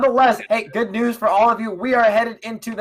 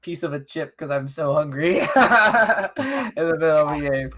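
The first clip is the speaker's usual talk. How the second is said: laughing. Real, not acted. Laughs at own hunger confession.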